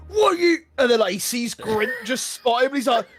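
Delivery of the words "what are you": sudden high, loud challenge; acted bully flaring up; aggressive outburst. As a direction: snap at whoever bumped into you. Bully snaps at person bumped into.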